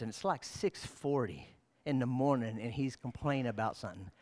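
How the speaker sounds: hushed confession. Real, not acted. Intimate confessional storytelling.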